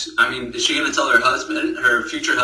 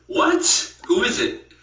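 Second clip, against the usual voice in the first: shocked gasp; 9 semitones higher, slower than usual. Retold or imitated. Friend hearing the pregnancy news, shocked high gasp. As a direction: pitch jumps high on a breathy what.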